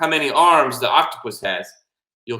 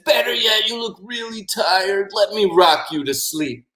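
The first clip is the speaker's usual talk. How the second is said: higher, slow soothing offer; coaxing octopus; 7 semitones higher than usual. Acted. Octopus offers to rock boy to sleep, soothing. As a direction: gently coax a tired child.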